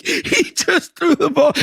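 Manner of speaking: high-pitched mock disbelief; incredulous retelling. Podcaster quoting a player who dodged a pass, incredulous. Acting out stunned player's reaction.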